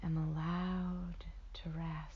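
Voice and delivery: very slow meditation phrase; guided meditation. Acted. Meditation guide offering a phrase to repeat, very slow guided delivery. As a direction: stretch each word out, letting it settle.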